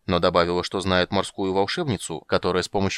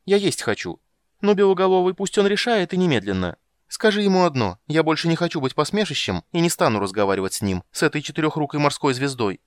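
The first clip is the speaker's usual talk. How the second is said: much higher, louder aggrieved siren; offended siren; 7 semitones higher, 5 dB louder than usual. Acted. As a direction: lecture him like a wronged sea maiden. Siren voiced in high register.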